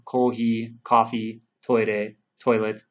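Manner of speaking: "kohi" against "coffee", "toire" against "toilet", each said slowly; comparing pronunciations. Shown as a demonstration. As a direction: contrast the Japanese and English words. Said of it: "sound very similar to the original".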